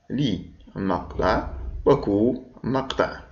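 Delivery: لي مقطع then وكو مقطع, each syllable said apart; syllables split apart. Shown as a demonstration. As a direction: spell out لي and وكو one by one. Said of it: "من كم من مقطع تتكون". (نطق المقاطع منفصلة)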